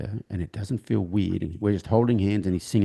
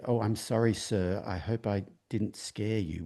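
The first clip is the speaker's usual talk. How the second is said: put-on soft, slow Southern US accent, polite; a hint of a Southern US accent, soft and slow; 7 dB quieter than usual. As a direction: gently apologize in a Southern US drawl. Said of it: "with a southern accent".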